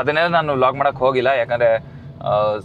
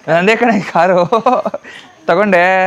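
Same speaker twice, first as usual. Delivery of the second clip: bright, raised, a little louder announcement; excited reveal; 5 semitones higher, 4 dB louder, slower than usual. Real, not acted. Brother reveals his new car to his sister, excited. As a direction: tell her the car is yours with a grin.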